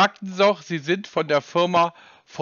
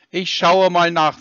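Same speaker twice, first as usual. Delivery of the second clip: louder, each word pressed, losing patience; pointed repeat; 5 dB louder than usual. Real, not acted. Repeating to the scam caller, louder and pointed. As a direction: say it again, firmly, since he didn't listen. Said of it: "sagte ich".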